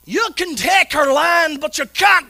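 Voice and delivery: preacher hamming up a charge into battle; Mel Gibson battle cry. Pretend. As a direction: ham up a movie war speech. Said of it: "looking like Mel Gibson in Braveheart".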